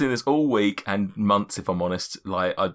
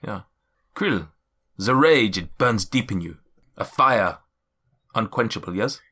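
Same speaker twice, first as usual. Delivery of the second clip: mystic figure's voice. Acted. Seer addressing each adventurer in turn, solemn. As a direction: speak like an ancient seer.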